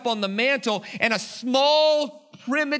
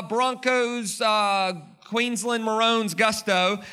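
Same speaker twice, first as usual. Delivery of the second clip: hyped up; much slower than usual. Acted. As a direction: pump up the crowd like sports fans. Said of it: "with some go".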